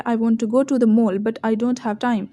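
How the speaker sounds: very slow, calm, clear sentence; slow and relaxed. Shown as a demonstration. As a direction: say it slowly, feeling each word. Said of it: "आराम से बोलना है". (आराम से धीरे बोलना)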